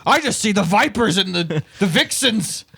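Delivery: laughing Scottish-Irish caricature; mock Irish accent. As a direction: drift into a hammed-up Irish brogue. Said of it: "It's like you got into a Scottish accent".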